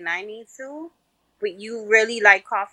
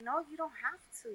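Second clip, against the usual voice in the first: fake polite refusal; 5 semitones higher, 17 dB quieter, much faster than usual. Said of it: "the fake grabbing the check".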